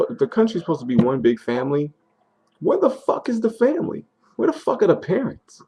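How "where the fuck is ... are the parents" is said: angry outcry. Real, not acted. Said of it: "I'm angry".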